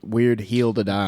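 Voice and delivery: put-on Mississippi accent, with hill said as heel. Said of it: "say heel instead of hill".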